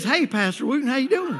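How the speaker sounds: sudden sweet switch. Retold or imitated. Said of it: "And then he did this".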